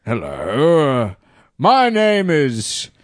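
breathy come-on, dragged out slowly; sultry phone sex voice. Pretend. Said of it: "phone sex as celebrity".

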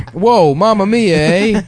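loud, high Italian-Canadian caricature; Italian-Canadian accent. Acted. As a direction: exclaim like a hammed-up Italian with a Canadian "eh". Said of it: "the Italian part of Canada".

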